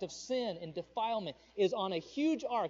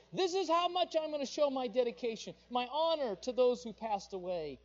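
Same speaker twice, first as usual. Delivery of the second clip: mock zealous mourner; 6 semitones higher, 4 dB louder than usual. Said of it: "They said".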